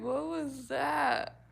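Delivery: very slow disbelieving drawl; slow stunned question. Retold or imitated. Hearing something shocking in public, slow mock disbelief. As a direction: stretch it out in disbelief. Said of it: "You're like".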